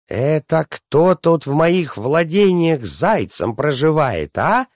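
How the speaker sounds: high, angry princess calling out; storybook princess hollering in anger; thunderous princess shout. A narrator's reading. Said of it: "громогласно закричала она на всё подземелье".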